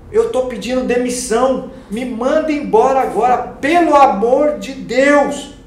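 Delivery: loud, high, slow begging; desperate plea. Retold or imitated. Begging his manager Thaís to fire him, loud and slow. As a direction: drag out the final plea, pleading hard.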